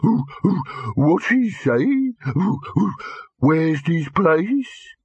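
high, thin mocking whine; small withering voice. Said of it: "a small, withering voice".

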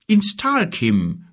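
a hint of a growling giant; lightly voiced rumbling giant. A narrator's reading. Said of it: "grollte er".

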